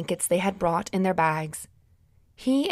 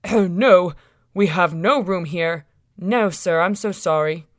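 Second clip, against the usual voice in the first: innkeeper; 6 dB louder than usual. Acted. Innkeeper turns the couple away.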